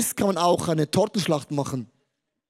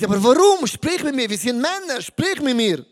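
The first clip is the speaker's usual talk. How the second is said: pleading; 5 semitones higher, 4 dB louder than usual. Retold or imitated. Father pleading with son.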